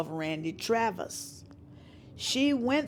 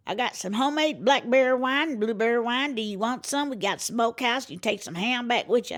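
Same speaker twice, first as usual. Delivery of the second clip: a hint of a hospitable country mama, higher; Mama's voice; 5 semitones higher than usual. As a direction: offer it like a proud country mother. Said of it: "This is Mama, her mother".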